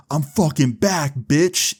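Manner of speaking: slow, cocky announcement to the crew; triumphant boast. Retold or imitated. Jimmy tells all his friends he's back, triumphant boast.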